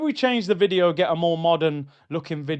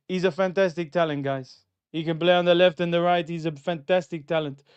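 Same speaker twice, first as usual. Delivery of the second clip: a light Spanish-tinged Arteta impression, hyped; lightly put-on Spanish accent of the Arsenal manager. YouTuber imitating the Arsenal manager, light Spanish accent. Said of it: "That's my Arteta accent".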